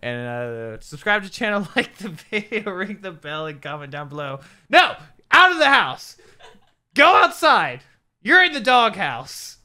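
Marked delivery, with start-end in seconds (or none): 4.7-9.6 high, very loud banishing shout; mock scolding. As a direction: order them out in hammed-up outrage. Mock banishing the co-host outside.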